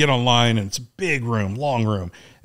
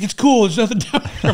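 high, louder voice with laughter; imitated reassuring call; 10 semitones higher, 4 dB louder than usual. Teammate calling up after the drop, high laughing imitation.

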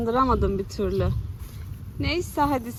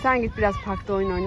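breathless after running around; panting between words; out of breath; 3 semitones lower, faster than usual. Real, not acted. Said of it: "Nefes nefese kaldım".

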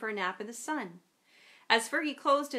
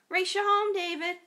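playful shout; 8 semitones higher, 6 dB louder than usual. Acted. Child calls out running off.

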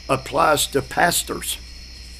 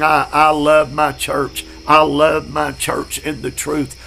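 "I" stressed at the start of each line; emphatic I. Shown as a demonstration. Preacher to class member, stressing I love my church. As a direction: lean into "I" as a personal vow. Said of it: "you ought to be saying".

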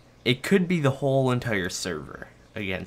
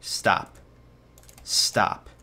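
urgent whisper. Real, not acted. Creeper approaching in game.

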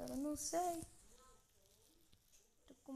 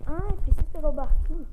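much louder urgent call; loud exclaim; 3 semitones higher, 17 dB louder than usual. Real, not acted. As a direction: blurt it out loudly.

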